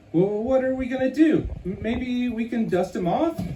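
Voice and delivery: high, anxious little critter; high worried critter voice. Acted. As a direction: fret high and quick.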